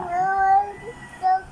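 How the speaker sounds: crying. Real, not acted. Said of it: "Why are you crying, honey?".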